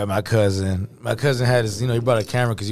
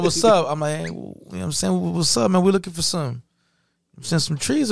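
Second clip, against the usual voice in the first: high nervous voice; 7 semitones higher than usual. Retold or imitated. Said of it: "He's like".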